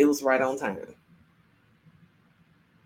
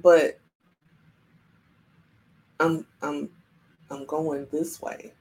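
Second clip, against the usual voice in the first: soft, halting, lower-pitched protest; hesitant objection; 3 semitones lower, 6 dB quieter than usual. Retold or imitated. Traveler told to change paths balks, quiet and hesitant. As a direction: stammer it quietly, slowing down.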